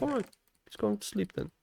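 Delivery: soft, slightly lifted voice; lightly acted hushed aside; hushed thought. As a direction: think aloud softly, careful of a sleeper. Acting out his own quiet thought.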